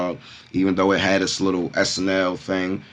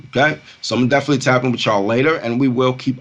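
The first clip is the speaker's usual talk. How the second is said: higher, louder, fast outro; crypto bro; 5 semitones higher, 5 dB louder than usual. Real, not acted. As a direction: rush out the sign-off with hype. Hyped vlog outro.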